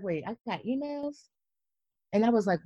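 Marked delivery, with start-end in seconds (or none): 0.0-1.3 realization. Retold or imitated.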